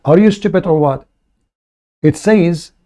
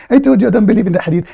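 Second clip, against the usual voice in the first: mocking quote; 4 semitones higher, much faster than usual. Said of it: "Who says that?".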